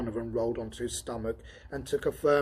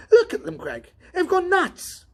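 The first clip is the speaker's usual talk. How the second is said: much higher, louder laughing yelp; excited alarm; 7 dB louder than usual. Acted. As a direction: shout it in disbelief with a laugh. Donovan sees robots gone crazy.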